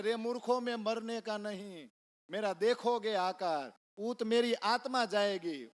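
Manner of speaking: loud, high chanted rebuke of fools; a son shouting a verse through a locked door. Retold or imitated. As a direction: call out the couplet at full voice to the parents. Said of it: "બૂમ પાડતા પાડતા".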